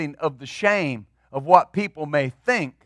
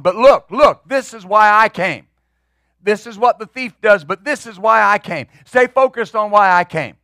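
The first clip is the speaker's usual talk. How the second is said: emphatic; 4 dB louder than usual. Acted. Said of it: "he's standing up and going".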